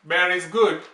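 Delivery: ordinary talk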